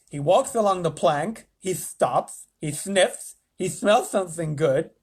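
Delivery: president voice. Acted. President narrates fly.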